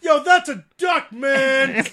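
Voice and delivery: loud, high yelling at a duck; angry bus yeller. Retold or imitated. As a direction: yell it like a rude bus passenger. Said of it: "The duck racist".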